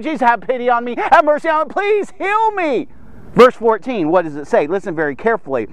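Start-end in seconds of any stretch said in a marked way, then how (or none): 0.0-2.9 acted crowd pleading. Lepers all begging Jesus for mercy, rising acted cries. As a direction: build from plain to a high, stretched beg. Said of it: "everyone's screaming at the same time".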